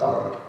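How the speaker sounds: "arr" trilled with the tongue tip; double-tapped rolled "arr". Shown as a demonstration. Teacher showing the Russian "arr" as a double tap. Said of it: "it's called double tap".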